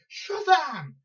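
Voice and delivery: SHAZAM yelled high and loud, last syllable drawn out; emphatic Shazam shout. Retold or imitated. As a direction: belt out SHAZAM with full emphasis. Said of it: "Put it with emphasis".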